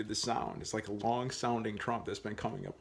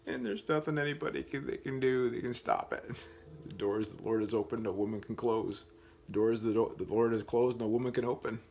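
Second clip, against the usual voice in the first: tipsy and getting louder; 3 dB louder than usual. Real, not acted. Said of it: "I get tipsy".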